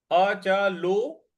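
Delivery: अचलो, very slow, the लो held long; teacher drawing out लो in अचलो. Shown as a demonstration. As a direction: stretch the ओ in अचलो. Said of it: "ओ की मात्रा है उसको दीर्घ खींचना है".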